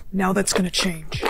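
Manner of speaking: low, slow threat; quiet menace. Acted. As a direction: let the menace sink in slowly. Abuser threatens girlfriend.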